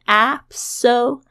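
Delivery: "absolutely" with stress on the A; teacher marks the stressed syllable; stress on first syllable. Shown as a demonstration. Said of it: "这个重音是在A上面".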